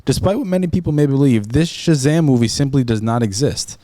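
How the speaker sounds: even, formal article read; reading aloud. Real, not acted. Reading a search result to his friend, formal read-aloud. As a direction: read it out like a written explainer.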